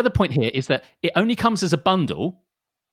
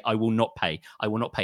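stubborn refusal; 4 semitones lower than usual. Shown as a demonstration. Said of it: "you have to say".

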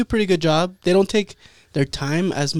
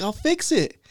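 higher-pitched, imitated impatience; fed up; 6 semitones higher than usual. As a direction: act out an exasperated barber. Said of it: "fool got fed up with him".

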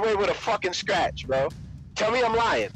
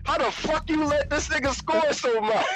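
drawn-out mock insults, one by one; mock cursing out; 5 semitones higher, slower than usual. Friend imitates teammate cursing out the team, mock angry. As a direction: imitate a teammate's tirade, rising higher toward the end. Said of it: "You were cursing out everybody".

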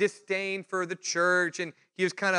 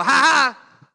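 loud, higher taunting ha ha; mock gotcha laugh; 7 semitones higher, 11 dB louder than usual. Skeptic husband taunting the preacher, mock gotcha laugh. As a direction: laugh like you caught him out. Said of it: "is looking for a reason to go".

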